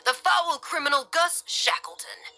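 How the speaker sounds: high, sneering taunt; condescending, mocking. A narrator's reading. Officer taunting the pinned criminal, condescending. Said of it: "His voice was condescending and mocking".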